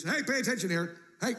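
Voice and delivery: urgent call for attention; imperative. Acted. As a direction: call listeners sharply to attention. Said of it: "in the imperative".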